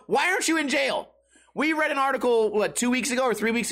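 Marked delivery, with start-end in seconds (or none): 0.1-1.1 high-pitched baffled question; incredulous. Acted. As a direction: demand an answer in high disbelief. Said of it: "what I think to myself".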